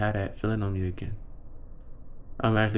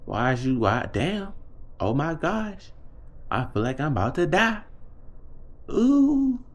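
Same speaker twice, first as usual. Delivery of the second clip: pained groans; 6 semitones higher than usual. Retold or imitated. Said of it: "it's like".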